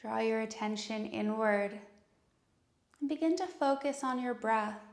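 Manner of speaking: calm, unhurried meditation voice with long pauses; guided meditation. Acted. Yoga teacher leading students into breath and intention, calm guided meditation.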